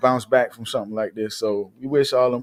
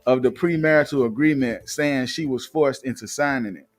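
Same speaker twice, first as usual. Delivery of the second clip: reading out a gossip article; news read; 3 semitones higher than usual. Acted. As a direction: read it like an entertainment news report. Reads celebrity news article.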